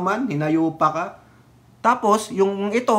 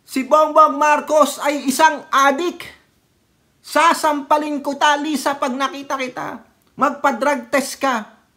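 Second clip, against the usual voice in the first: higher, louder ranting protester; mock rally rant; 7 semitones higher, 4 dB louder than usual. Vlogger imitating protesters shouting at the rally, loud. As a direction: shout it like an angry rally speaker. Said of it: "ano gagawin nila".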